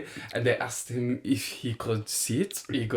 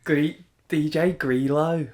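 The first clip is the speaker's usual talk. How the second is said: slow, higher-pitched Brummie; half-successful Brummie impression; attempted Brum accent; 4 semitones higher, slower than usual. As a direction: stretch it out in shaky-attempt Birmingham accent. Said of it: "I can't do Brum".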